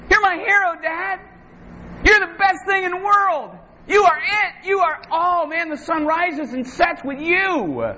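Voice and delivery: a hint of an adoring kid; adoring child. Kid running to hug dad, lightly voiced gushing child.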